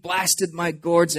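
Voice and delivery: blasted my gourds drawn out, reflective and hushed; slow solemn recital. Shown as a demonstration. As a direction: linger on "gourds" like a verse. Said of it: "that line after that, he says".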